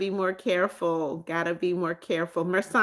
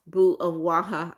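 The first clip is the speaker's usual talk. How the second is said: mock British accent. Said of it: "British gang".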